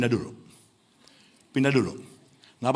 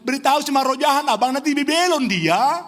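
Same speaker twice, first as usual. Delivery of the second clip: much higher, louder warning; mock uncle warning; 10 semitones higher, 3 dB louder than usual. Uncle warning the father his son will go mad, raised and loud. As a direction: shout the uncle's alarm. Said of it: "papanya mereka bilang".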